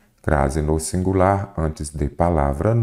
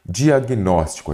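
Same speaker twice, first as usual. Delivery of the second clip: "Diagnóstico" slowly, syllable by syllable; separando em sílabas; 3 semitones higher than usual. Shown as a demonstration. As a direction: stretch out each syllable of "Diagnóstico". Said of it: "você já vem separando aqui". ("Diagnóstico" devagar, separando as sílabas)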